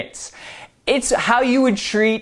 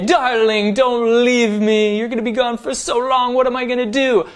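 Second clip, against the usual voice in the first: higher, hammed-up pleading; melodramatic lover; 6 semitones higher than usual. Shown as a demonstration. Role play as lovers, higher hammed-up pleading. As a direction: ham it up like a soap lover. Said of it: "you could say".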